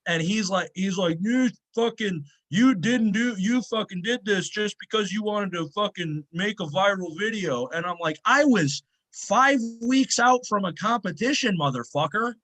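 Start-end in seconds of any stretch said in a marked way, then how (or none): 1.2-7.7 mock angry accusation. Lifter imitating gym owner accusing him, mock anger. 8.2-12.3 mock furious rant. Lifter retelling his comeback to gym owner, hammed-up fury.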